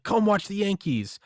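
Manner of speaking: high-pitched mock invitation; hammed-up eager politician greeting strangers; LBJ. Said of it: "he was just jumping out".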